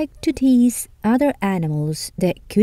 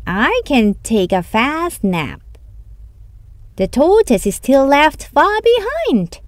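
sleepy smug hare; 4 semitones higher than usual. Acted. Hare boasts he can nap, the tortoise far behind. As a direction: brag before the nap. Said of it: "he said".

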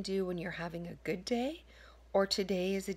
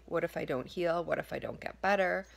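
fretful, rising louder through the what-ifs; mock panicky self-doubt, getting louder; anxious inner voice; 3 semitones lower, 3 dB louder than usual. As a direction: play the nagging worried mind spiralling. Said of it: "you hear your mind say".

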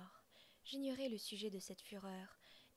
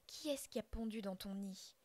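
question furieuse; 4 dB louder than usual. Acted. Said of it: "dit-il".

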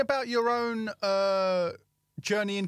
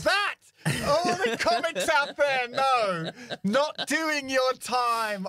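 mock scolding; slower than usual. Real, not acted. Host scolds comics, mock outrage.

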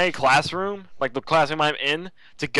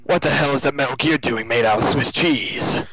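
lightly voiced bad Russian; Russian accent. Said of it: "I can kind of do Russian accent".

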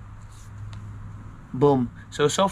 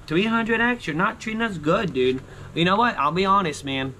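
high, exasperated complaint at the ticket; venting at a losing ticket; frustrated outburst; 5 semitones higher than usual. Real, not acted.

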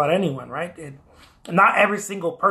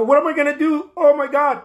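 higher, louder mock panic; 7 semitones higher, 5 dB louder than usual. Artist panicking over too many offers, mock fretful. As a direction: play the frantic artist, half joking.

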